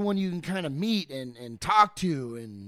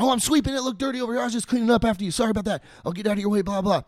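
higher, cheery offhand excuse; cheerful eager; 5 semitones higher, faster than usual. Retold or imitated. Guy caught sweeping answers Edison, cheerfully eager. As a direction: brush it off like it's nothing, keen.

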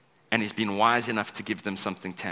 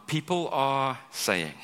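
mock whisperer; 3 semitones higher, much slower than usual. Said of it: "someone comes up and says".

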